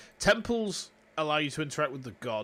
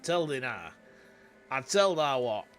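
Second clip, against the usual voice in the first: Yorkshire twang. Pretend. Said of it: "you and your mate who is from London".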